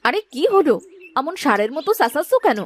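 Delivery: wife's peevish retort to being called; irritable scolding. Acted. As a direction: answer back, annoyed at the shouting. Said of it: "অমন করে কথা বলো কেন সব সময়".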